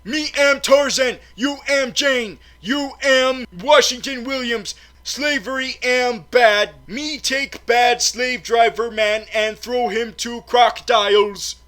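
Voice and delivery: loud, high caveman grunting of broken English; classic Tarzan talk. Retold or imitated. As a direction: bellow it like a jungle man with no grammar. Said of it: "that classic Tarzan talk".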